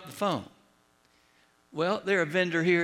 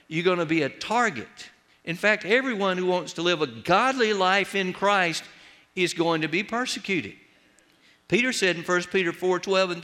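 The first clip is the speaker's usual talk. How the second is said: preaching; 3 semitones higher than usual. Acted. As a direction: drive the warning home to the flock. Preaching to congregation.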